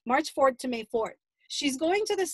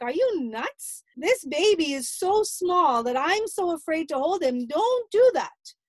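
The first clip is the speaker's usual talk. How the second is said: higher, louder, slow alarmed scold; 4 semitones higher, 4 dB louder, slower than usual. Retold or imitated. Mother scolding daughter for showering the tiny baby. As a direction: warn her off in alarm.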